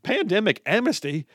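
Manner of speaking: a light retelling of a guy's high disbelieving question; incredulous ranting guy. Retold or imitated. Host retells a Twitter ranter's mock disbelief. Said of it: "He's like".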